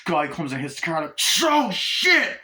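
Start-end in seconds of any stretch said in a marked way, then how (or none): 1.4-2.4 high, loud startled yelp of panic; panicked yelp. Retold or imitated. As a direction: cry out in sudden fright as the car is hit. Taxi hit, acted panic.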